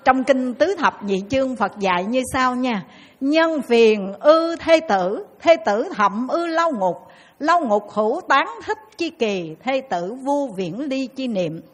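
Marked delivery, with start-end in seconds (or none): 3.2-11.6 slow sacred recitation; sutra recitation. Acted. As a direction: intone each word like a temple reading. Recites scripture in chant.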